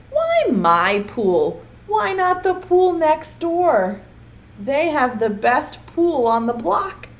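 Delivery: put-on slow, whiny plea of a little boy; boy pleading. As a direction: beg like a kid who wants his pool back.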